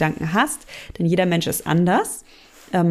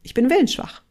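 mock despair; 6 semitones higher than usual. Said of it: "Manche fühlen sich einfach willensschwach".

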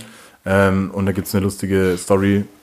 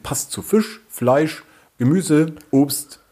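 mocking list; 4 semitones higher, slower than usual. Mocking wine label list.

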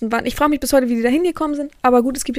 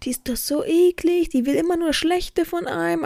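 bitchy retold bickering, pitched up; mock quarrelling; 5 semitones higher than usual. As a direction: imitate classmates griping about someone. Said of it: "dann so ganz laut zu streiten".

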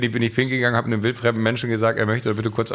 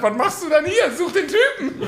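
high, laughing bark of an order; mock urgent order. Friend ordering him to go find the thief, high laughing command. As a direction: push him to go find the guy. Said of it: "Und dann hast du gesagt".

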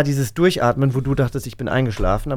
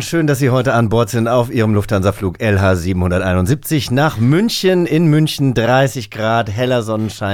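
Pilotendurchsage; 2 semitones lower than usual. Acted. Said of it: "es kommt die Durchsage des Kapitäns".

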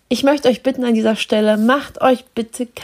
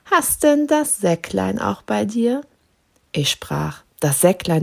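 measured recitation of a Christmas poem. Acted. Host reciting Storm for listeners, verse recitation. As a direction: read it like a classic verse.

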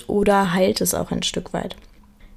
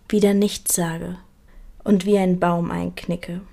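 deliberate spoken-word delivery, pausing after each phrase; poem recitation. Acted. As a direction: recite your own poem line by line, unhurried. Reads own text aloud.

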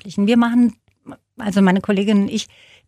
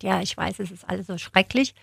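mock mournful; 6 dB quieter than usual. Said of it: "mit todtrauriger Miene hinkommt und sagt".

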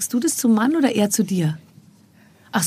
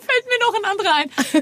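stifled giggles; 12 semitones higher than usual. Real, not acted. Game of not laughing.

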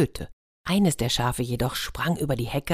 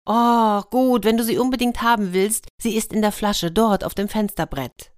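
desperate elves; 6 semitones higher, 3 dB louder than usual. Acted. Trapped elves give in.

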